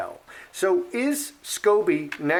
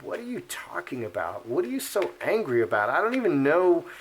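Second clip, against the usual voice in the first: confused and exasperated; 3 semitones higher, faster than usual. Retold or imitated. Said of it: "that person is just confused, like".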